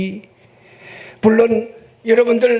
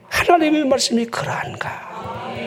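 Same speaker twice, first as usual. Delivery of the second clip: earnest; 6 dB quieter than usual. Shown as a demonstration. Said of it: "간절하게".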